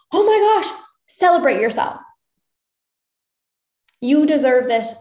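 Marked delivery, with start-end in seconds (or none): 0.1-0.7 excited squeal. Retold or imitated. Voicing a client's small win.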